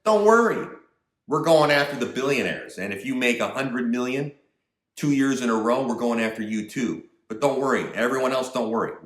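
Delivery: a hint of a condescending reassuring official; mock Yellen reassurance. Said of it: "Janet says".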